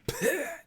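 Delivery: sputtering spray noise with the lips; imitated spore burst. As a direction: make a short puff of spores bursting. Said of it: "siphons off and kind of".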